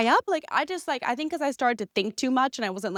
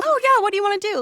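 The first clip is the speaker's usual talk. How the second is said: high, sweet and bright, eager to please; coy submissive girl; 10 semitones higher, 3 dB louder, faster than usual. Retold or imitated. To her man in bed, a coy, high, eager-to-please voice. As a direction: flip from bossy to girlishly pliant. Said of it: "play that role of being assertive one second and then back".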